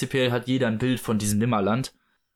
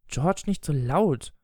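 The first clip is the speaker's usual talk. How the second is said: higher, slow wifely plea; pleading; 4 semitones higher, slower than usual. Acted. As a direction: plead with a raised pitch, drawn out. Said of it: "flehte Misses Darling".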